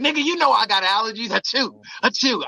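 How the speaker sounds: imitating a girlfriend's sneezy complaint; mock girlfriend sneezing. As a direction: play the allergic girlfriend, fast with two fake achoos.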